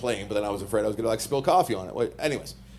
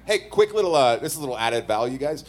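wrestling promo voice; 3 semitones lower than usual. Acted. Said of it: "Did you just do a wrestling promo".

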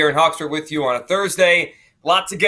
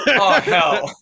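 mock-dismayed outburst, louder and higher; exasperated dismay; 8 semitones higher, 6 dB louder than usual. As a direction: play up the early-morning dread. Retold early-morning panic over forgotten elf.

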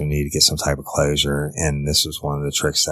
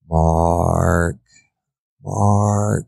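imitating Caitlin; 3 semitones higher than usual. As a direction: call out to him as the missing girl, begging. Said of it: "a representation of Caitlin's voice begging".

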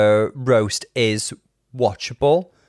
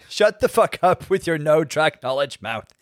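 quoting roast insult; 3 semitones higher, slower than usual. Retold or imitated.

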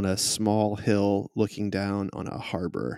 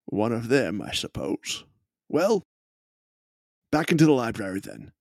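dismissive gentleman. Acted. NPC dismissive.

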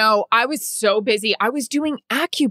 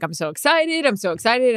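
excited; 4 semitones higher than usual. Retold or imitated. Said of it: "you were like".

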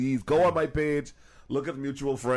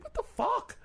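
mock incredulous friend; 4 dB quieter than usual. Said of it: "And she was like".

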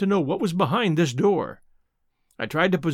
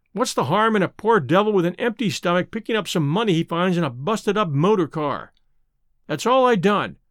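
beaten tramp. Acted. Hannay to the old gentleman, playing a beaten tramp. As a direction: plead like a poor devil who's had enough.

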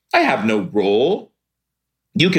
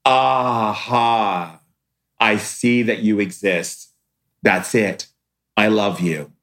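admiring greeting; 4 semitones lower than usual. Pretend. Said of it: "just look at and say".

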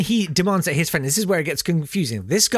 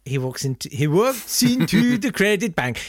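mock Swedish accent, sing-song; playful Swedish accent retelling; 3 semitones higher than usual. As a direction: lilt it like a jokey Swede. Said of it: "Excellent, excellent accents".

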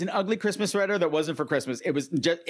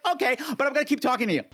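mock lovesick guy; 7 semitones higher, much faster than usual. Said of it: "He's like".

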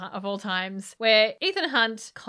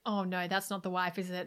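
mock dismayed aside; 3 semitones lower, 8 dB quieter than usual. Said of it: "Ilsa's like".

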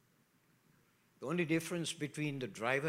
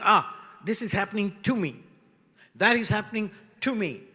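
self-pitying victim; 4 semitones higher, 8 dB louder than usual. Acted. Victim complaining about life.

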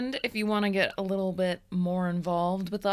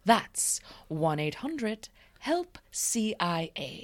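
mock ad read; slower than usual. Mock hotline ad.

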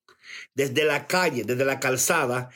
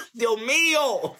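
slow, higher words through laughter; amused disbelief; laughing; 6 semitones higher, much slower than usual. Real, not acted. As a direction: gasp it out while laughing. Laughing at comment.

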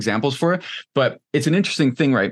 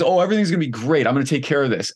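mock grandiose confidence; 2 semitones higher, faster than usual. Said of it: "delusions of grandeur".

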